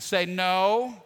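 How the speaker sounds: a little sass on the NO; firm, sassy refusal; with attitude. Shown as a demonstration. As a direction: prompt the crowd with some attitude. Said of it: "Now say it with a little attitude".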